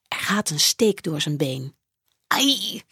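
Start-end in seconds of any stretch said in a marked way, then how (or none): 2.3-2.8 pained sigh. A narrator's reading. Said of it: "zucht hij".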